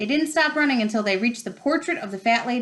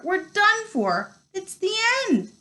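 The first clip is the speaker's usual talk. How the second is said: moaning; 12 semitones higher than usual. A narrator's reading. Ron gives up at the locked door, wailing. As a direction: lament it, all hope lost. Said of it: "Ron moaned".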